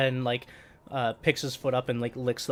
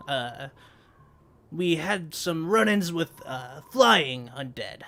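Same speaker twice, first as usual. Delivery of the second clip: louder, slower leader voice; NPC voice; 3 semitones higher, 5 dB louder, slower than usual. Acted. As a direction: report calmly as leader. GM holds Ismali voice.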